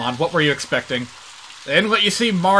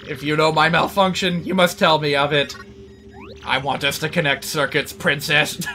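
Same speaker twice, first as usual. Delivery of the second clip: robot voice. Acted. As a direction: speak like a calm, polite machine. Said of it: "we have an actual computer character in this game".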